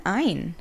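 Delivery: "Ein" with a final n; mispronounced contraction. Retold or imitated. Challenging people who say it wrong, "Ein" with an n. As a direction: say "Ein", swapping m for n. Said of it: "Why are you saying".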